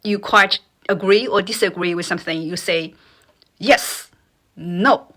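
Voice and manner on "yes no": YES and NO each dropped sharply; quick falling tone. Shown as a demonstration. Teacher likening tone to disagreeing, "yes", "no" falling quickly. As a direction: say "yes", "no" as firm falls. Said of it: "the tone dropped very quickly".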